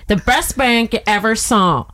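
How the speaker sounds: slow, drawn-out mock president; Donald Trump. Player showing how the president talks, slow constipated-sounding impression. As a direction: stretch out the boast in a strained impression. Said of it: "He's like".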